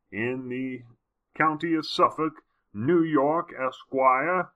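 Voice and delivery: lightly put-on nobleman reading a contract. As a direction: read it out grandly, with stately measured names. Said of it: "I gotta do my noble voice here".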